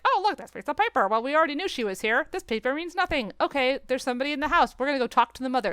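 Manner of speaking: quick, dismissive mock dialogue; mocking detectives. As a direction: brush it all off, sarcastically. Mocking the film's characters.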